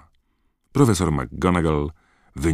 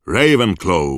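loud, higher shriek of the house name; hat shrieks; 7 semitones higher, 9 dB louder than usual. A narrator's reading. Sorting Hat shrieks the new student's house. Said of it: "wrzasnęła tiara".

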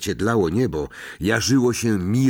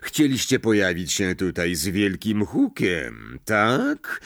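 silky, mocking teacher voice, slower on the sneer; menacing mock gentleness; almost gentle Snape; slower than usual. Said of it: "zaczął niemal łagodnie".

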